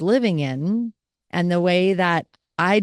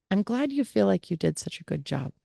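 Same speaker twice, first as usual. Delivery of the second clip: soft, faster repeat of the gentle line; soothing reply; 2 semitones higher, 5 dB quieter, faster than usual. Shown as a demonstration. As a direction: calmly repeat the careful reply. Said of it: "Notice I didn't agree with her".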